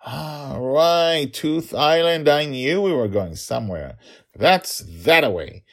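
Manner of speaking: high, loud dawning realisation; dad suddenly remembering. Acted. Dragon father finally recalling the destination, hearty realisation. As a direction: let the penny drop with a lifted voice.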